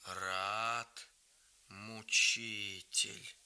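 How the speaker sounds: put-on low, very slow old woman's grumble; an old woman grumbling at her husband; grumbling grandmother. A narrator's reading. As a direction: mutter it under your breath like an old woman. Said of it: "громко нюхала табак и ворчала".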